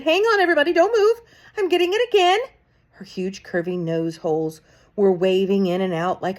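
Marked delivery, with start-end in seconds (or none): 0.0-2.4 much higher, loud cry. A narrator's reading. Mildred cries out to everybody, high and loud. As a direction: cry out to hold them. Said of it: "cried the witch called Mildred".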